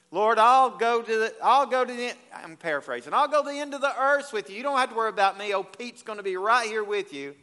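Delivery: boastful Peter. Retold or imitated. Peter bragging to Jesus.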